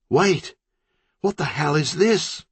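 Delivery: high, alarmed cry breaking the laughter; sudden alarm. Acted. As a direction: snap from giggles into horror. City sees the blood.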